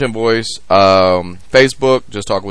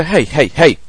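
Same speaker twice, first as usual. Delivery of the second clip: hushed, lower mob boss warning; crooner impression; 4 semitones lower, 10 dB quieter than usual. Acted. Father disciplining as mob boss, very soft and low. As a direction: quietly lay down the law like a mobster. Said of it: "crooner voice".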